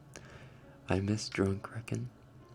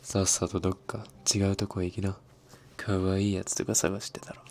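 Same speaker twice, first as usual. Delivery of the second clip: louder gruff anime thug voice; tough anime tough guy; 5 dB louder than usual. Pretend. Playing an anime thug chasing off someone cute. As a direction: bark it like a street punk. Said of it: "anime-style Japanese lines".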